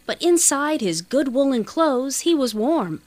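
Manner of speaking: usual speaking voice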